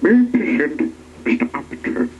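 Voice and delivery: a touch high, announcing; announcing goblin. A narrator's reading. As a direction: announce it like a little herald. Goblin presents guest to king.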